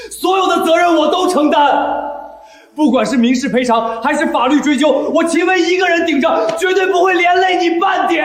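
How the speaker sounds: tearful shouting vow. Acted. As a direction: raise it to a crying shout. Vows to take all blame.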